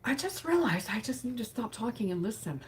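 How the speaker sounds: quoting her. Retold or imitated. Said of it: "she later said".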